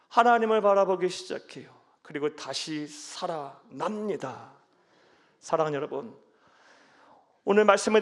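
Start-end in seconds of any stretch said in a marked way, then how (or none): 0.1-1.7 louder repeat. Acted. Repeated line, then louder. 2.0-4.5 slow soft delivery. Acted.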